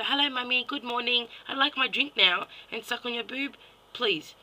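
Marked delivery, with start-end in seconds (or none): 0.0-2.5 higher-pitched, mocking kid request; a hint of a child asking mum. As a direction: put on a polite little kid, lightly. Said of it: "have your kid go".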